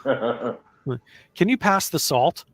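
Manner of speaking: very slow, carefully spaced Japanese-accented English; a hint of a Japanese accent, drawn out; slow Japanese-style English. Shown as a demonstration. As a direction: speak it slowly to a Japanese listener. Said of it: "I actually speak like that".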